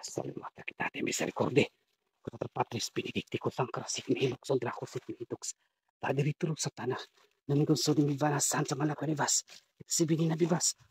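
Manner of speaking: murmured-to-steady Latin prayer, building slightly; prayer recitation. Acted. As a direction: recite it like a protective incantation.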